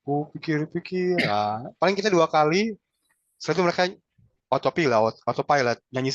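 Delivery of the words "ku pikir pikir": leading the count. Shown as a demonstration. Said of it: "kita pimpin nyanyi sama-sama".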